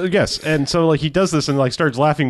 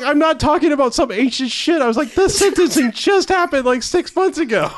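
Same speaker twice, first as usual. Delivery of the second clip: ranting at a clueless friend, laughing high; laughing disbelief; 13 semitones higher than usual. Retold or imitated. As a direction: howl it in disbelief. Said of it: "I'm like".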